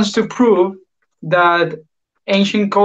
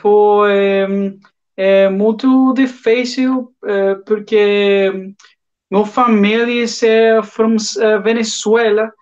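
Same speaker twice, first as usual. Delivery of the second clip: halting Portuguese, pitched up and slowed, searching for words; speaking Portuguese; 3 semitones higher than usual. Shown as a demonstration. Asked by friends to try Portuguese, halting and hesitant. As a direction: try out your rusty Portuguese, slowly. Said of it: "to try to speak in Portuguese?".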